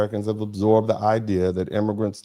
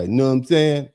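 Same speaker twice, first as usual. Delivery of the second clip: lightly mimicking the caller's street phrasing, a bit louder; mock slang; 4 semitones higher, 4 dB louder than usual. Host echoing the caller's slang back at him, light mimicry. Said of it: "That's an American East Coast style use of slang".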